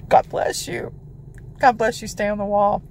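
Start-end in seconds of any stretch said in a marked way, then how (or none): 0.1-0.9 whispered. Real, not acted. Soft blessing before repeating it.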